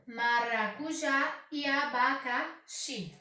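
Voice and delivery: "maracujá e abacaxi" devagar, destacando JÁ e XI; última sílaba tônica. Shown as a demonstration. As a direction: separe o final de "maracujá" e de "abacaxi". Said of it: "sendo a sílaba tônica". (maracu-JÁ, abaca... XI, bem pausado)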